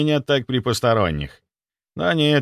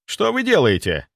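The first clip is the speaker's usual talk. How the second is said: a puzzled, raised question; surprised; 7 semitones higher than usual. A narrator's reading. Clinic head to the doctor, surprised. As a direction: ask it caught off guard. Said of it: "удивился Сомов".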